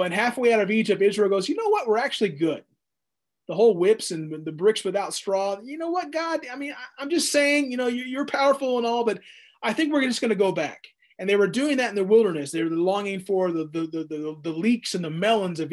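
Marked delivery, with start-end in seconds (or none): 1.5-2.6 breezy change of heart; a hint of a flaky crowd backing out; mock Israel. Israel voiced changing its mind. 5.6-10.8 lightly voiced sheepish crowd, high and quick; a hint of people sidling away from God; sheepish Israel. Israel voiced talking back to God.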